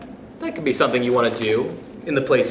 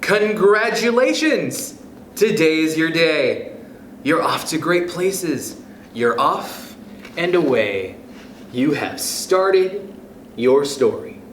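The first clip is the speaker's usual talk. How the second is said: lively storybook read-aloud voice; expressive picture-book reading; reading to children. Acted. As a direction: read it to a class of kids, bright and sing-song. Teacher reads picture book aloud.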